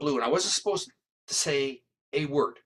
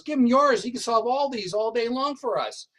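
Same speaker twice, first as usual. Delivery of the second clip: high, loud sneering jab at a rookie; mock him, pitch way up, push the volume; 9 semitones higher, 3 dB louder than usual. Lieutenant mocking the narrator to his partner, sneering and loud. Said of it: "and he's mocking me".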